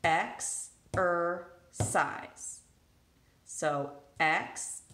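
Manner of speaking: exercise split into ex-er-cise; clapping syllables. Shown as a demonstration. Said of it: "let's clap or tap that one out".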